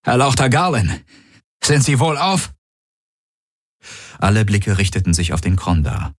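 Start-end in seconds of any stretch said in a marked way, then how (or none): 0.0-2.5 higher respectful inquiry; deferential soldier. A narrator's reading. Tari asking the noble Galen, respectful concern. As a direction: ask with lightly voiced concern.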